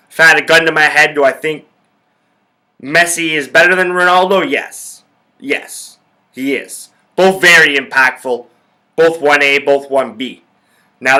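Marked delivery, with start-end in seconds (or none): 4.5-6.9 breathy hushed confession of a yes; whispered yes. Real, not acted. Admitting to viewers that Messi is better, whispered. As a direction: whisper the yes like a guilty secret. Whispered gun-to-head admission.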